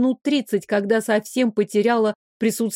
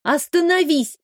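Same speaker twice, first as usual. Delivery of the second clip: higher, firm order to the log; a witch giving a strict order; stern command; 6 semitones higher than usual. Acted. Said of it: "Строго приказала".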